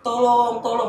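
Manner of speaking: high, loud drawn-out cry for help; long, wailing yell; screaming for help. Retold or imitated. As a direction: re-enact a desperate scream. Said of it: "Sambil teriak".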